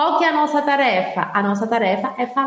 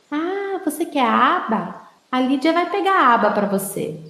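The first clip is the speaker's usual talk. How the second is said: mock baby talk; 3 semitones higher than usual. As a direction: talk down to a toddler, copying "aba". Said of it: "Aí a Lídia vai virar e falar assim".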